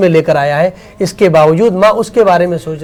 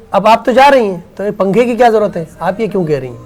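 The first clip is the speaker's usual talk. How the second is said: dismissive son; 5 semitones higher, 4 dB louder than usual. Retold or imitated. Son dismisses mother's wish for fan.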